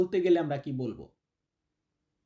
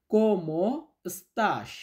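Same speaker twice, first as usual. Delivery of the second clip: very slow dictation; much slower than usual. Shown as a demonstration. Teacher to students, slow model phrase to repeat. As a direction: stretch each syllable, very slow. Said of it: "আমার সাথে সাথে বলুন তো".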